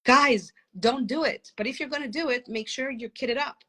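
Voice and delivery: mock rooftop announcement to parents; half-hearted warning shout to would-be parents. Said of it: "every parent shouting from the rooftop".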